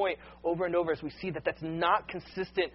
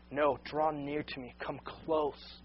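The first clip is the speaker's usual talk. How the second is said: gentle invitation; 3 semitones lower, 6 dB quieter, slower than usual. Acted. God's gentle call, voiced softly.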